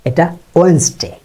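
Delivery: ওয়েডনেসডে said as "wens-day"; ওয়েডনেসডে in two syllables; correct Wednesday. Shown as a demonstration. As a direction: skip the "d" in ওয়েডনেসডে. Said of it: "ওয়েডনেসডে বলতে কিছু নাই".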